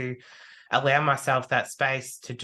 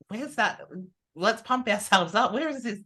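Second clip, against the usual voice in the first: mock pump-up; 7 semitones higher than usual. Pumping himself up mid-match.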